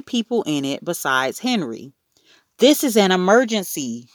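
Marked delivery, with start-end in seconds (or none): 2.6-4.1 mildly frantic raised-pitch wail. A narrator's reading. Mother at the elevator with Fudge, wailing. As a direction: wail it urgently without screaming. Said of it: "Mom wailed".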